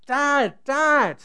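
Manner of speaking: high, loud cry for help; retold shout. Daughter cornered on the springboard, shouting loud for dad. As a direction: call for dad in alarm. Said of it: "she's shouting out".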